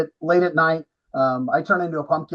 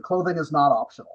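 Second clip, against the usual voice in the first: quoting himself through a laugh; 3 semitones lower than usual. Retold or imitated. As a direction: chuckle while repeating the rule. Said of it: "and I said".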